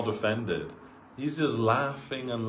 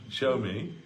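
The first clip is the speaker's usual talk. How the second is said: smiling request; 3 semitones higher than usual. Retold or imitated. Guru smiling as he asks the disciple again to show him. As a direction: tease him with a smile. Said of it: "this little smile coming on his face".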